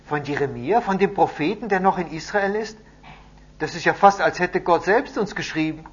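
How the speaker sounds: high, loud, astonished questioning; amazed excitement. A narrator's reading. Captives react to a letter from the prophet, loudly amazed. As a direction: react as if hardly believing it.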